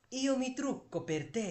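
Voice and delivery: voicing the wife. Shown as a demonstration. Wife tells husband she does makeup.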